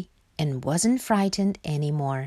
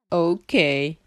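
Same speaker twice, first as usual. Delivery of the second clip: lightly voiced Pig giving in; grudging Pig; 3 semitones lower than usual. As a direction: concede in a Pig voice. Pig gives in.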